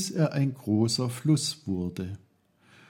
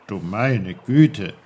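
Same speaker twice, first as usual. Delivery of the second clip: put-on old uncle's exclamation; 6 dB louder, slower than usual. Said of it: "sagte eine vertraute Stimme".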